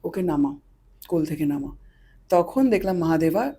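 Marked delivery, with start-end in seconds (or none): 0.0-1.7 1 quiet command. Retold or imitated. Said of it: "বাবা আর কি আদেশ দিলেন".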